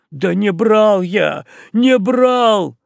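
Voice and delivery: loud, high pleading cry; desperate denial. Acted. Beaten sailor begs the boatswain, crying out. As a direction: plead under the blows.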